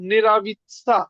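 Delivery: নেরাবিৎসা drawn out, ending in plain -tsa. Shown as a demonstration. Teacher giving an example word, নেরাবিৎসা with a -tsa ending. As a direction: end নেরাবিৎসা on tsa, with no y glide. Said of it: "এটা সার মতন হবে".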